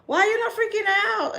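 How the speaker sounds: high, loud incredulous outburst; incredulous question. Retold or imitated. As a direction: demand it in high-pitched disbelief. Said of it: "Because I even asked him".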